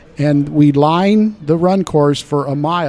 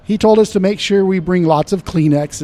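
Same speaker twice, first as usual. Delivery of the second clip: choked up, cracking on the words; 3 semitones higher than usual. Real, not acted. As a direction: voice breaking with emotion. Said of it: "I can hear your voice cracking now".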